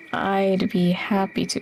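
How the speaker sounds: mock suggestive tone. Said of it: "Why do you say it like that?".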